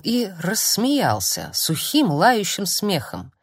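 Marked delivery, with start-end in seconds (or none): none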